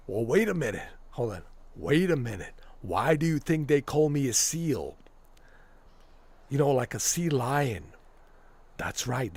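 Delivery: lightly voiced tough wrestler-governor boast; a hint of Jesse Ventura's swagger; Jesse Ventura impression. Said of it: "when I do these voices".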